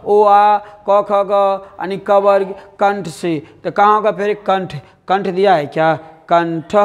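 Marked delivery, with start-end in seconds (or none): 0.0-1.3 slow sound recital. Shown as a demonstration. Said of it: "सूत्र याद रखिएगा".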